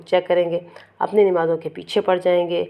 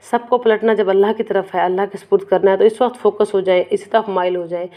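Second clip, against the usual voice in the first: earnest urging; 2 semitones higher, 4 dB louder than usual. Real, not acted. Teacher urging her listeners to turn to Allah, raised earnest voice. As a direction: rouse the listeners to focus, with rising urgency.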